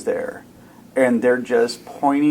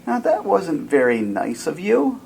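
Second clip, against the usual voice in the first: calming voice; 6 semitones higher than usual. Acted. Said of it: "in a calming voice".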